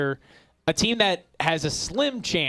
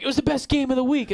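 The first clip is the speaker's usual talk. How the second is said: mock praise; 9 semitones higher, faster than usual. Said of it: "everyone's like".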